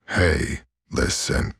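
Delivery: a light fairy call, Hey pitched a little up; chirpy little fairy calling out; Navi impression. Imitating the Zelda fairy for viewers, light and chirpy. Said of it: "like a Navi from the Legend of Zelda".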